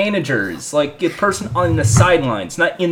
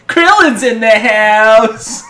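slow, drawn-out cartoon call; Krillin voice; 3 semitones higher, 4 dB louder, slower than usual. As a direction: announce it like Krillin. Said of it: "it's in the Krillin voice".

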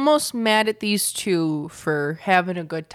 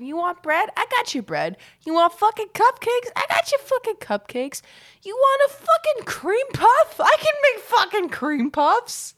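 aggressive boasting; 12 semitones higher than usual. Real, not acted. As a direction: hype up your baking like a champion.

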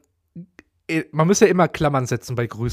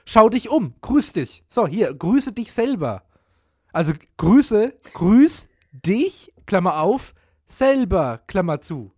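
commanding tone; 2 semitones higher, slower than usual. Shown as a demonstration. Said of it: "als Befehlston".

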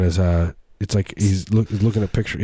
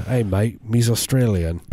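bad Australian accent; 2 semitones higher than usual. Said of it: "I do this accent".

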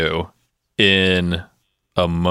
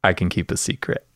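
soft secret line; 2 semitones lower, 6 dB quieter than usual. Retold or imitated. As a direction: say it under the breath, meaningfully. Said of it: "she says".

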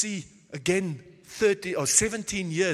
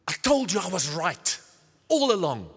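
louder, told-you-so gloating; smug gloating; 2 semitones lower, 4 dB louder than usual. Pretend. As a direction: rub it in, self-righteous. Imagined gloating words of Joseph.

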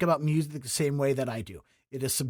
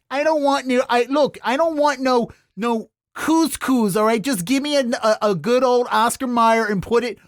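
insistent, raised-pitch Baltimore diner; mock Dundalk accent; 4 semitones higher, 3 dB louder than usual. Host plays a Dundalk diner ordering from the chef, mock Dundalk accent. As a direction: play a stubborn Dundalk customer with broad vowels. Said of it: "I've seen you've cooked in Dundalk before".

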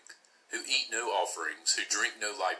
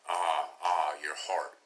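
restrained, low storyteller's sigh; echoed sigh; 3 semitones lower, slower than usual. A narrator's reading. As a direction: echo her lament in a sinking sigh. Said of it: "They sighed".

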